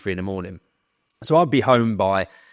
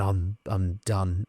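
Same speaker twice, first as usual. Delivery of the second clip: matter of fact; much slower than usual. Retold or imitated. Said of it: "I was literally just so matter of fact".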